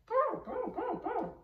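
very high, loud bouncy boom; excited boom. Acted. Trainer tempting her dog with a furry toy, high excited booms. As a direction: belt it out to rile him up.

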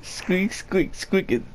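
movie quote. Retold or imitated. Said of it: "the Emperor's Groove".

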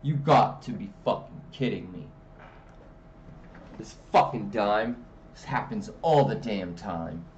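mock angry woman; annoyed girlfriend. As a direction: grumble it like she's fed up. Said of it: "she's like".

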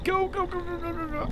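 high rapid go go go; excited urging. Real, not acted. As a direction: urge them on in a high voice. Urging character to hurry.

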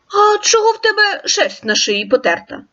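a touch of a hungry wolf; wolf character. Acted. Wolf voiced in tale.

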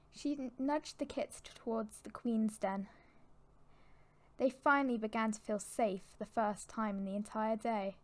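measured, dramatic storybook reading; storyteller setting a tense scene; story narration. A narrator's reading. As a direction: narrate it evenly, with pauses between phrases.

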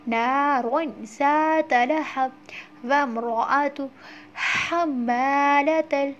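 very slow recitation; slow tajweed chant; Quran recitation. Shown as a demonstration. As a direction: draw out each word. Recites verses slowly.

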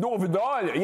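lightly mocking a bad Northern Irish impression; mock Northern Irish accent. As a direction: mimic someone's poor attempt at Northern Irish. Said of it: "they all sound like that".

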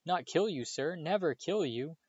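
high, pleading elf voice in shock. A narrator's reading. Elf protests to Harry, shocked and high. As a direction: protest in horror that anyone would think it.

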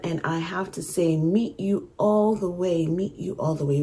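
soft, unsung lyric reading; reading lyrics aloud. Acted. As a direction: read the lyrics softly as spoken verse. Reads out song lyrics.

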